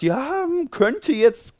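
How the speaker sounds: mock wishy-washy doctor, pitch jumping up on the hm; hedging doctor. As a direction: play a noncommittal doctor hemming and hawing. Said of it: "und der sagt".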